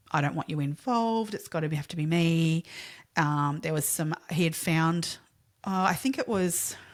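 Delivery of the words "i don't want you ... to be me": normal talking voice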